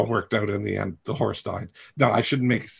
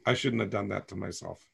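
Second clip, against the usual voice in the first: choked up; 2 semitones lower, 11 dB quieter than usual. Real, not acted. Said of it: "now I'm gonna cry".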